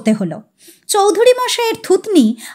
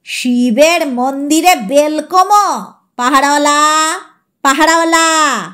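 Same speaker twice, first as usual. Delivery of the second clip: mild mock yell for the guard; old man calling out for the watchman. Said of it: "চিৎকার করে উঠলেন".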